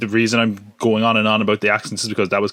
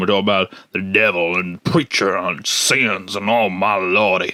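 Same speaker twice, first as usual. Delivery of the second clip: a touch of put-on Southern accent. Talking about a Netflix trailer, speaker uses a put-on southern accent. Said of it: "I put on this bit of a southern accent".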